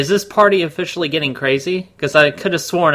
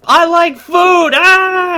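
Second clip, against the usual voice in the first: much higher, slow, loud silly yell; mock dumb Garfield; 7 dB louder, much slower than usual. Co-host parodies Garfield's food jokes, high silly yell. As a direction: bellow it like a dopey cartoon cat.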